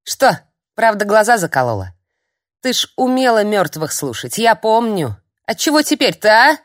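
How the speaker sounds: put-on high, loud prodding old hag; old crone needling the witch. A narrator's reading. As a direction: press her with a sly jab.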